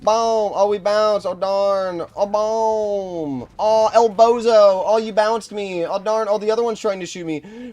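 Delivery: high, drawn-out mock shot calls; mock play-by-play. Gamer calls out his tank shots, high mock play-by-play.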